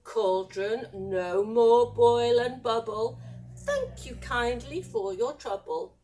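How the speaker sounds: measured, commanding incantation; spell casting. Acted. Mum waves her wand at the cauldron, incanting. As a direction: intone it like a magic spell.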